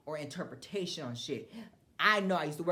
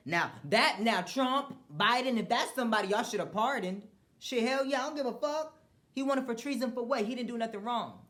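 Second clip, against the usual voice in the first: loud and higher, worked up; defiant outburst on pardoning; fired-up shout of support; heated rant; 6 semitones higher, 4 dB louder than usual. Real, not acted.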